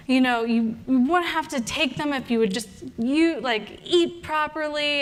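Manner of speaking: understated furious scolding; mild mock fury. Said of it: "I am furious with this woman".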